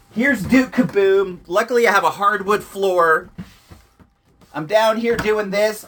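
yelling. Real, not acted. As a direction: call it out across the room. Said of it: "I'm yelling almost at the top of my lungs".

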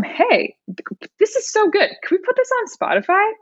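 high, quick, eager gush; fast, excited fangirl pitch. Retold or imitated. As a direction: sell it like a thrilled fan. Gushing message to the producer.

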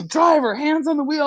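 high, mock trooper call; retold police command. State trooper repeating his order to the driver, mock command. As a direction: imitate a cop calling out an order.

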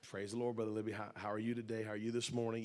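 low, lightly put-on church pleasantries; putting on a good side. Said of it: "Put on our good side".

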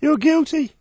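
very high hammed-up judge. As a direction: pronounce sentence like a stage judge. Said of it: "I was the judge".

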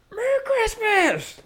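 high, slow, drawn-out mock yell; drunk yelling. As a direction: bellow it at the kids like a tipsy neighbor. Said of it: "and I'd go".

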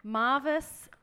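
slow, deliberate product-name read; slow label read. Real, not acted. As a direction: read each word out carefully. Reads label slowly.

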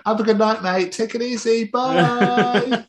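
high, singsong mock-cheery send-off; re-enacted taunt to a beaten rival; gloating farewell. Gloating farewell to losing fan.

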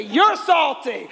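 drawn-out slow accusation; slow, drawn-out teasing accusation. Shown as a demonstration. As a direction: stretch each word out slowly.

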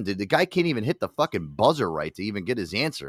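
ordinary delivery

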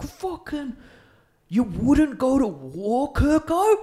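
put-on dopey drunk mate voice, high and slow; slack jawed. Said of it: "There's a real deep, dopey voice".

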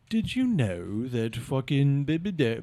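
slow, lightly put-on British accent; measured British delivery, softly voiced; British dialect. Comic comparing UK dialects, slow mild British accent. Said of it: "like, dialect, because if someone is like".

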